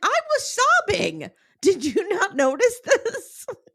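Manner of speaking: very high, swooping, drawn-out, incredulous exasperation. Retelling own reply to being asked about crying: retelling own exasperated reply. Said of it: "I'm like".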